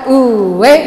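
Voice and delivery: "uwe" in the Karo way, drawn out; Karo accent. Shown as a demonstration. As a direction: stretch "uwe" like a Karo speaker. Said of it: "ini logat Batak dengan logat Karo".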